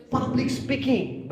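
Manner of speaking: "Public speaking" lifted high and drawn out slowly; emphasized phrase. Shown as a demonstration. Teacher stresses the key answer to the class, high and slow. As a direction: lean hard on "Public speaking" so it lands. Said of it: "Aksentuasi itu adalah penekanan".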